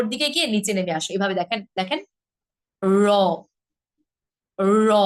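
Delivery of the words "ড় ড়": "র" with the tongue curled up and flapped down firmly; pressed retroflex r. Shown as a demonstration. Teacher demonstrating the heavier r, pressed. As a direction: flap "র" down from the palate with pressure. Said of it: "একটু pressure দিয়ে".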